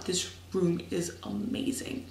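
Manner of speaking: breathy, awed near-whisper; slow, hushed amazement at the room. Real, not acted. Showing off her room to Rachel, in an awed hush.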